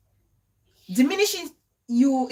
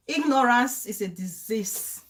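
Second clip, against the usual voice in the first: slow emphatic. Shown as a demonstration. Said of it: "repeated for emphasis".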